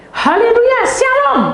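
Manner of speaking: loud, high-pitched mock hallelujah cry; exuberant greeting. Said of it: "dia selalu bilang gini". (salam lantang bersemangat, bernada tinggi)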